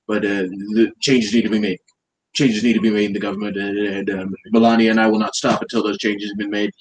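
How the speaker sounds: lightly voiced Trump, boastful and repetitive; Trump impression. Mocking Trump for a friend, lightly voiced boastful Trump. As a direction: praise everyone like a salesman president. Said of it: "That's a great impression".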